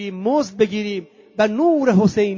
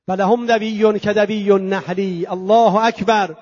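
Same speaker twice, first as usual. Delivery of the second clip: slow, intoned scriptural quote; Arabic recitation; 4 dB louder, slower than usual. Retold or imitated. Preacher describing the night of worship, slow intoned Arabic. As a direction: stretch the phrases out in steady recitation.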